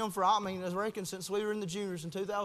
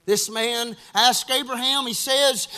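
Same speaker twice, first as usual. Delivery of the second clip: loud, raised preacher's voice; forceful preaching; 4 semitones higher, 12 dB louder, slower than usual. Real, not acted. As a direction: launch the story at full volume. Preacher launching into a quote.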